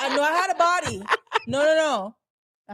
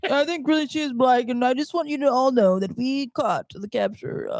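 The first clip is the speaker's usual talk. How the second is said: lightly voiced podium speaker; mild politician impression; Barack Obama. Co-host trying the president after host, light impression. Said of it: "Barack Obama?".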